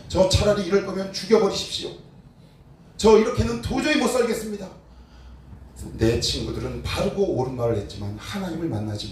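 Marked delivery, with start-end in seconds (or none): 0.1-4.8 욥을 흉내 내어 높은 목소리로 하소연하듯; 하나님께 따지며 부르짖는 욥 재연. Retold or imitated. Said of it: "끊임없이 하나님을 향해 부르짖습니다". (높은 음으로 부르짖듯이)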